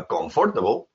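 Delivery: COMFORTABLE as con-FOR-tuh-bul; mistaken pronunciation. Shown as a demonstration. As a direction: put the stress on "for" in "comfortable". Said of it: "if you think that the correct pronunciation is".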